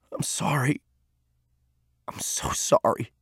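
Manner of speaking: hushed, breath-only apology; very soft, remorseful whisper. A narrator's reading. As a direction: whisper it in shame. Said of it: "he whispered".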